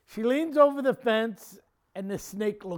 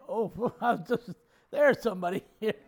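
ordinary talk, nothing marked

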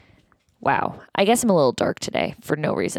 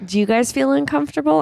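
put-on child voice; 9 semitones higher, faster than usual. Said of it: "I'm going to play the child".

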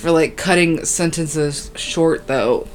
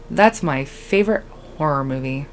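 said oddly; 2 semitones lower, 3 dB quieter than usual. Real, not acted. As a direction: draw it out with odd weight. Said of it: "had to say it like that".

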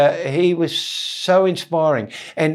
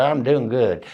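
put-on American accent; 2 semitones lower than usual. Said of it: "I would have to talk in their".

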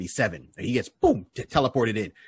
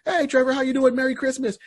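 much higher friendly hello; own cheery greeting; 12 semitones higher, 3 dB louder than usual. Retold or imitated. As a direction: greet Trevor brightly, pitched high. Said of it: "So I'm like".

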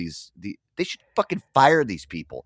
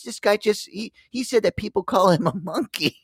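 higher, imitating his mom; 7 semitones higher than usual. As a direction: retell mom's shocked report. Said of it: "She goes".

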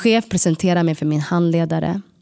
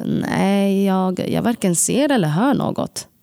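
soft voice; 2 semitones higher, slower than usual. Retold or imitated. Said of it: "med sin mjuka röst".

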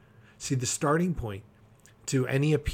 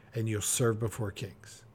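dropped low and soft, almost confiding; soft, lower promise; 4 semitones lower, 6 dB quieter than usual. Shown as a demonstration. Pastor promising listeners they'll serve kings, soft and low. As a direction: ease off and tell them gently. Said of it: "repeating the proverb as a promise".

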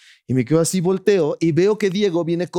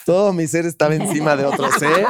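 a bit louder, words carried on real laughter; laughing; 3 dB louder than usual. Real, not acted. Laughing at her own joke about the affair. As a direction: push the punchline through your giggles.

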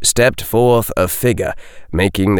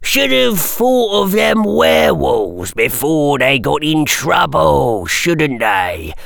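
slow, higher, gloating caretaker voice; spiteful old caretaker; 5 semitones higher, slower than usual. A narrator's reading. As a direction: savour the threat like a mean old caretaker.

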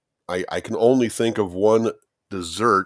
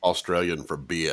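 put-on Australian accent, dropping the R in beer; light Australian twang; attempted Australian accent; 3 semitones lower, 4 dB quieter than usual. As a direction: have a go at Aussie. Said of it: "I can't do Australian".

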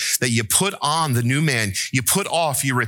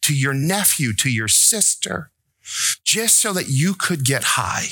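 retold anger; 3 semitones higher than usual. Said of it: "I was so angry at him".

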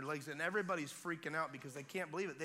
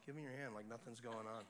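calm and casual; 9 semitones lower, 9 dB quieter than usual. Retold or imitated. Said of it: "I'm chill".

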